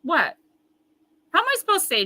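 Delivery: ordinary talk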